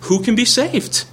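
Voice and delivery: high, pleading disbelief, words climbing up; a dismayed disciple crying out who can be saved; despairing Peter. Acted. The teacher voicing Peter in high despair to Jesus. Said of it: "you're feeling like Peter in Matthew nineteen".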